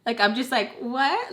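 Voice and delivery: feigned confusion; playing dumb. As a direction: act clueless on purpose. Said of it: "trying to act so stupid".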